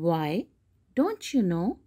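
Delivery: Why, don't you know? asked with a light lift of surprise; a touch of surprise, read from the book; mild surprise. Acted. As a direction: read it as a gently puzzled question. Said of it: "she replied in surprise".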